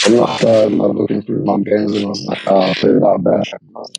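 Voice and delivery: garbled robotic phone audio; breaking up like a bad connection. Real, not acted. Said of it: "you sound mad robotic".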